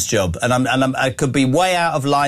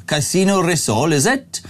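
dodgy Welsh accent. Shown as a demonstration. Radio host doing a listener's dare, dodgy Welsh accent. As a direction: put on a rough Welsh accent, rising on "is it?". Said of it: "Welsh accent".

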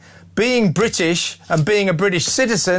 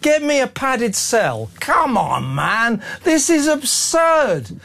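higher, slow, dripping sarcasm; sarcastic mock disbelief; 5 semitones higher, slower than usual. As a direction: pretend to doubt the obvious, mocking. Sarcastic mockery of caller's claim.

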